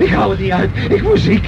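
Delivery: high, climbing cry of dread; panicking. Acted. Passenger can't bear the falling plane, panicking. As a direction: lose control as the plane drops.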